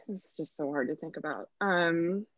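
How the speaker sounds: holding back laughter; fighting off the giggles; trying not to laugh. Real, not acted. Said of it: "you're clearly getting emotional".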